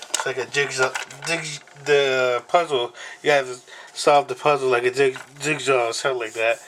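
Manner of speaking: stumbling over words with false starts; real, halting search for the word; stuttering. Real, not acted. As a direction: trip on the word and restart it. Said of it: "sorry, I'm stuttering like that".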